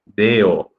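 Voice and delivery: "Deo" set apart as the word's ending; detached, careful "Deo"; syllable by syllable. Shown as a demonstration. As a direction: sound out "Deo" on its own. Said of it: "Se divide en nueve sílabas".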